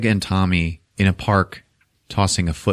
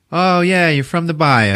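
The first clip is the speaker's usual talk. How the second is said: high-pitched fake agreement; sarcastic mocking; 9 semitones higher than usual. Greg doubts Tommy is from the Bayou, sarcastic. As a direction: play scornful disbelief, pitched up.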